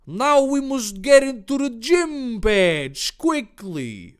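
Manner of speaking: high, loud, slow wail; hammed-up urgent hero. Hero hurries friends out of the cave, loud wail. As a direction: stretch it out in a high put-on voice. Character urges on in story.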